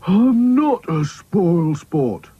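high, drawn-out sulky protest; indignant denial. A narrator's reading. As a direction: wail the denial slowly. Quarrel with Dotty.

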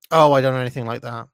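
lightly voiced working-class old woman. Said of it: "horrible working-class old woman way".

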